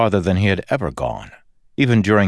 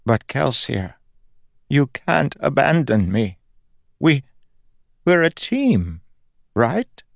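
higher, pleading, breaking voice of a dying god; fading god begs his friend to stay, higher and pleading; desperate plea; 9 semitones higher than usual. Acted. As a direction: beg him not to leave. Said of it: "god pleading with Kelsier".

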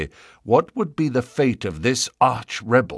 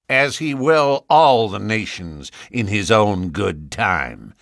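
nasal voice. Acted. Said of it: "said the other in a nasal voice".

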